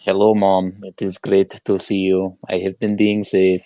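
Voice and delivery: a hint of a child reciting a lesson; rote greeting. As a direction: recite it like a drilled daughter. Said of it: "What do you say?".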